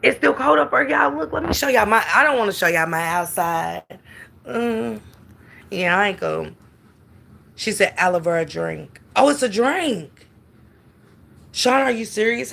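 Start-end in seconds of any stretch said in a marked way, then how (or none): none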